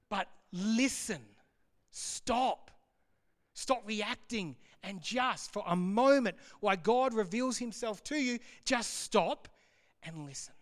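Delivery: mildly forceful, slow and deliberate command; God. Acted. God tells busy Peter to stop reacting, firmly forceful. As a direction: press each command, leaving pauses between them. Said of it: "but it's that forceful".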